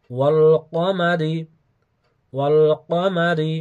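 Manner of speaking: measured Quranic model reading; careful pronunciation demo. Shown as a demonstration. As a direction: recite each word distinctly for learners to copy. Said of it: "আমি বলছি ভালোভাবে আপনারা শোনার চেষ্টা করবেন". (স্পষ্ট করে কোরআনের উচ্চারণ দেখানো)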